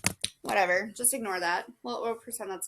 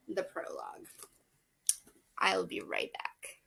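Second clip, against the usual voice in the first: whispered aside; 3 dB quieter than usual. Real, not acted. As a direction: breathe it out as a whisper.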